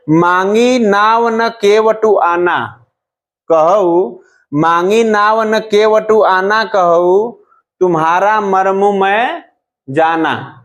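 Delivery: slow, drawn-out couplet reading; verse recitation. Shown as a demonstration. Teacher reciting an example couplet to students, slow verse recitation. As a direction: recite the verse with long, stretched words.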